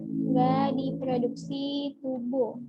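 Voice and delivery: "Nggak diproduksi tubuh" stretched out very slowly; slow emphatic repeat. Shown as a demonstration. Tutor repeating the key fact for students, very slowly. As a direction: drill the point home word by word. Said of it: "nggak diproduksi tubuh ya".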